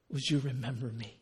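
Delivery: soft, low request; quiet penitent question; humble plea. Retold or imitated. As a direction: ask gently, expecting nothing. Voices the criminal's humble plea.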